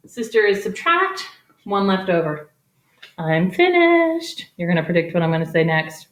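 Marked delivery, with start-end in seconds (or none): 3.2-4.5 mock triumphant announcement. Announcing end of problem.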